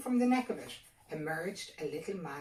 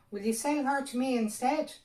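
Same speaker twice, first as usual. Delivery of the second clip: fairy's eager offer; 8 semitones higher, 8 dB louder than usual. A narrator's reading. Fairy voiced in story.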